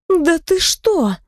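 высоко и медленно, с изумлением; протяни ахая от удивления; ахнула. Acted. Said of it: "ахнула Наталья". (Наталья ахает, изумлённо и медленно)

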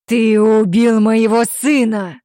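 loud, slow outraged shout; furious accusation. Acted. Grieving father accusing the killer, loud shout. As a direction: hurl the accusation.

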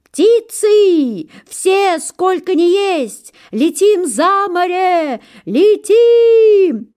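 very high, loud, slow call; gander's rousing cry. A narrator's reading. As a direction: lift everyone into flight. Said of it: "крикнул".

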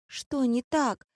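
slow, high-pitched whimper; whining. A narrator's reading. Girl whimpering at the threatening director, whining. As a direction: whine it slowly in a small high voice. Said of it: "захныкала девушка".

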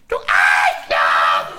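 low, slow, loud insult; shout. Retold or imitated. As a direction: drag out the curse loudly. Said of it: "Und er sagte dann". (langsam gebrüllte Beleidigung)

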